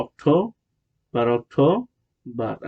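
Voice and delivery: অক্টোবর drawn out, ending on a clear r; American pronunciation. Shown as a demonstration. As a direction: stretch অক্টোবর as "ok-tooo, barr". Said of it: "American হলো". (অক্টোবর, টেনে র-সহ American উচ্চারণে)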